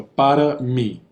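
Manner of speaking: "para mí" with "mí" ending nasal, slowly. Shown as a demonstration. Teacher demonstrating the nasal ending to the class. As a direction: let "mí" close on a nasal hum. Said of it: "but it's this nasal sound".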